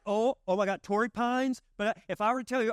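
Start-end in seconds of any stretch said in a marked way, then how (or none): 0.1-1.6 high, thrilled gush about the golf course; excited golfer. Retold or imitated. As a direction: swoon over your dream golf course. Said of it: "You're like".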